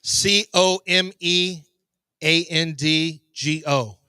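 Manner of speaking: "C O M E A N D G O" spelled letter by letter, slowly. Shown as a demonstration. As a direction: spell out "C O M E" one letter at a time. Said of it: "how would you spell come and go".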